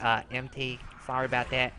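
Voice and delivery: soft, low mumbled apology; quiet, offhand sorry; sheepish apology. Retold or imitated. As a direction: drop to an embarrassed aside. Apologises for mistaken whisper message.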